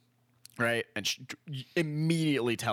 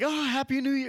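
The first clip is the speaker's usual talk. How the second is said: high, celebratory greeting; festive cheer; 13 semitones higher, 3 dB louder than usual. Retold or imitated. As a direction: imitate a crowd cheering at midnight. Imitating partygoers at midnight.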